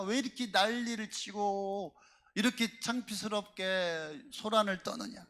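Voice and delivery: lightly acted grumbling crowd, building in pitch; scolding bystanders. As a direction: imitate annoyed onlookers telling someone off. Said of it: "주변 사람들이 뭐라고 할까요?".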